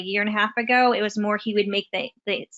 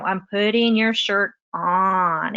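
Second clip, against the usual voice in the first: put-on drawn-out, deliberate narration for a child; slow demonstration talk to a toddler; slow modeled speech; slower than usual. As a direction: stretch it out slowly, modeling each word. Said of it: "we would say everything".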